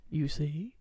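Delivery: lightly hammed-up villain menace, swelling in the middle; imitating the Grinch. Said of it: "And he's like".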